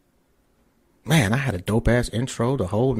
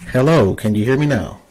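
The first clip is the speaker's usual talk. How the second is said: raised voice over a bad mic line; loud; 9 dB louder than usual. Real, not acted. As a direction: call out loudly to be heard. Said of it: "I got it up as loud".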